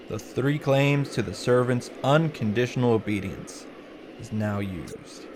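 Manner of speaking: solemn, softening dramatic read; hushed, measured visual-novel narration; story narration. A narrator's reading.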